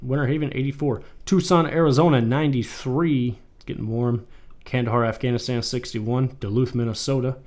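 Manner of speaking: weather report read; news anchor voice. Pretend. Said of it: "I sound like a news anchor".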